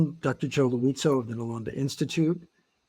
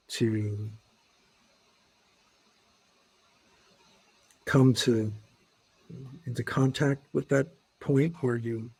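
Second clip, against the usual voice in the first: even meditation guidance with long pauses; guided meditation. Acted. Teacher leading listeners into breath and body awareness, guided meditation. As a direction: guide them gently into body awareness, pausing between phrases.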